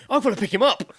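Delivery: high, loud words broken by laughter; laughing. Retold or imitated. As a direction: laugh through the disbelief. Laughing disbelief at the task.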